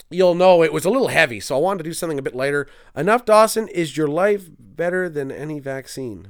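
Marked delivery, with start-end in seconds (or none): 2.9-6.3 reading the comment aloud slowly, stumbling over "Enough Dawson, is your life"; puzzled misreading. Real, not acted.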